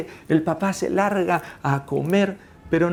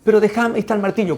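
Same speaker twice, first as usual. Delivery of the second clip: higher, louder pleading; protesting little son; insistent child; 6 semitones higher, 5 dB louder, much faster than usual. Acted. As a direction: play a kid begging dad to be allowed. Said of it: "cuando el niño, el hijo".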